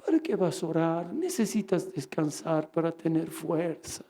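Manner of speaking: a softly reasoning voice in his head; little inner voice. Retold or imitated. The enemy talks a tired man out of praying, little inner voice. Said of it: "empecé a escuchar esa vocecita".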